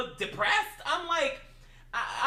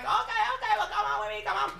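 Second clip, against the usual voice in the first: very high, hyper hostess; Chinese lady impression; 9 semitones higher, faster than usual. Hostess leads hungry diners inside, imitated high and hyper. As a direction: chirp it high as an exaggerated hostess. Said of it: "She's like".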